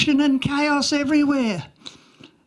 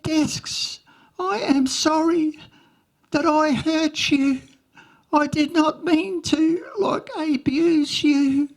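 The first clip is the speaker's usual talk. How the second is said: higher and slow, mock-tearful pleading; tearful apology; 4 semitones higher, slower than usual. Girl apologising to the desks in chapel, mock-tearful and slow. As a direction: ham up a teary apology to the desks, slowly. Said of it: "it looked as though she was, like, crying".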